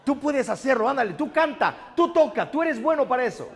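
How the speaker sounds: a friend urging you to go for it; pushy encourager. Retold or imitated. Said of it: "la segunda es aquella que te empuja".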